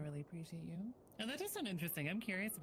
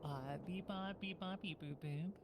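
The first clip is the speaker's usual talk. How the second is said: robot beep boops. Pretend. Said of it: "cursed to talk only in beep boops".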